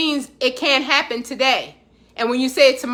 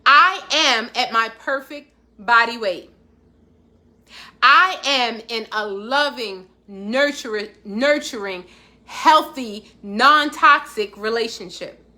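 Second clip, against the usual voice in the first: slow affirmation; slower than usual. Shown as a demonstration. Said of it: "I want you to say".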